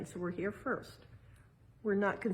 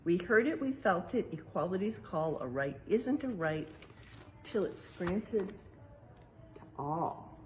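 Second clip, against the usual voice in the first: rhyming verse read aloud. Acted. Parent reading the exhibit's rhyme to children, lilting read-aloud. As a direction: read the rhyme like a picture book to kids.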